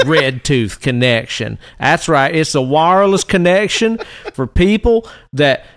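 lightly voiced folksy conservative rant; redneck conservative. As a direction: grumble like a cranky rural right-winger. Plays redneck conservative character.

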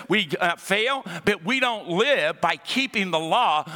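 preaching with mounting fervour; rising preaching. Acted. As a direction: lift the crowd toward freedom. Building sermon passage.

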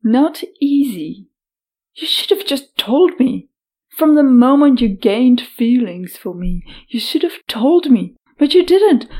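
rising, furious shout; angry shouting. Acted. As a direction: let the anger explode. Heroine furious at ex.

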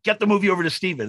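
high, loud and fast command; urgent order. Retold or imitated. Agents ordering the print sent to Steven, loud and rushed. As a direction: agents scrambling after Steven's call.

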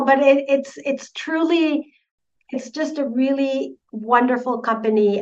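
a real catch of emotion in the voice; emotional voice catching. Real, not acted. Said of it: "I sound a little emotional".

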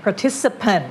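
"Participant" ending in a reduced -punt; weak final vowel in "Participant"; schwa ending. Shown as a demonstration. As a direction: model "Participant" with an uh in the last syllable. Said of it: "มันจะเป็นเอิ้นทั้งนั้นเลย".

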